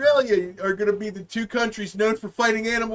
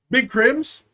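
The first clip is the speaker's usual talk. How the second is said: laughing; 2 semitones higher, 4 dB louder than usual. Real, not acted. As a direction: giggle out the question. Laughing question.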